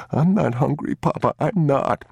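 put-on high, small child's voice; a scared young boy tugging at his father; boy's voice. A narrator's reading. Boy refusing to eat.

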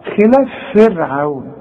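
فرعون with a heavy, full ra, slow. Shown as a demonstration. Teacher contrasting a heavy ra with a light one. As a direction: make the ra in فرعون thick. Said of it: "راء ساكنه".

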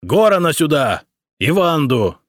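loud, high shouted order; roar. A narrator's reading. Emperor roars an order to the secretary, loud. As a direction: bellow for the servants. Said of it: "императорский рык".

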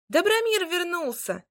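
high excited shout; excited exclamation. A narrator's reading. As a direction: shout the news running up. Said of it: "воскликнул вдруг мальчуган".

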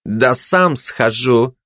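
slow, disdainful delivery; drawn-out arrogance; haughty. Acted. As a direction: say it slowly, looking down on everyone. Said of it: "высокомерно произнёс фашист".

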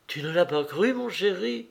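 tender question rising high at the end; a mother gently checking with her child. A narrator's reading. (question tendre d'une mère, qui monte à la fin)

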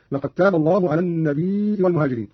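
"النبي" with long i then glottal stop, an-nabii'i; Qalun hamza reading. Shown as a demonstration. Teacher gives another example, "النبي" read an-nabii'i. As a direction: hold the i of "النبي" before a hamza. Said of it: "وكذا قوله تعالى".

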